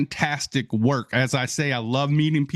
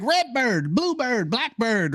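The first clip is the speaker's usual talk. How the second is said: high, excited calling out of birds; name birds like a thrilled kid; excited little kid; 10 semitones higher than usual. Retold or imitated. Speaker recalls spotting birds as a child, excited. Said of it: "as a little kid".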